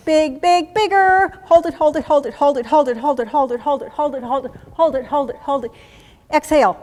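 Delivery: building on BIGGER, then insistent rapid chant; drill command. Shown as a demonstration. Instructor leads Navy seal box breathing, loud drill command.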